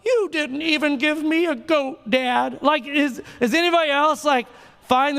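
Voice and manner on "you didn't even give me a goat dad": mock sulky whine about the goat; whiny older son. Pastor mocking the son to his dad, sulky whine. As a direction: play up a pouting complaint. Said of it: "They're like, woe is me".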